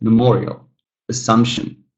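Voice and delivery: "memorial, assumption" stressed on MO and SUMP; second-syllable stress. Shown as a demonstration. Teacher listing examples, second-syllable stress on "memorial, assumption". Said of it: "The second syllable stressed".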